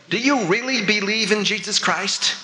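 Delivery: mock-innocent, nonchalant query. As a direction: ask it innocently, as if offhand. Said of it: "very nonchalantly I said".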